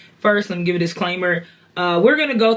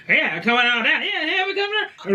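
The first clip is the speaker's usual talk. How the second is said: put-on comic impressionist voice, climbing high; mock stage impression with a rising pitch; hammy celebrity impression; 8 semitones higher than usual. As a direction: mimic a hack impressionist, rising as you go. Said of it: "people who do a whole lot of impressions".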